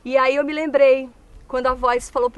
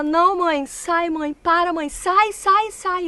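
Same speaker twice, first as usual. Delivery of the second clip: put-on higher, louder panicked pleading of a small girl; imitating a terrified child; 5 semitones higher, 4 dB louder, slower than usual. Daughter screaming at her mother to go away, panicked. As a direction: cry out like a scared four-year-old pushing her mother away. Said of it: "ela falava".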